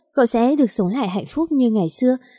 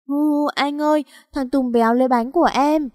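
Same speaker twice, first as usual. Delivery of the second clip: put-on higher, childlike whine to big brother; whimpering little girl; 5 semitones higher than usual. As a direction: play a small girl complaining through tears. (em gái nhõng nhẽo mếu máo)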